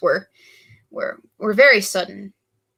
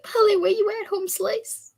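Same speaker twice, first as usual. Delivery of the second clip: playful call-out; 12 semitones higher than usual. Retold or imitated. Calling friend, joking voice.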